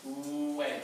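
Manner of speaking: "Way" with a long buzzing oo onset; voiced W. Shown as a demonstration. Coach showing a voiced consonant, humming-W "Way". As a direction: let the W of "Way" vibrate before the vowel. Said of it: "One is voiced".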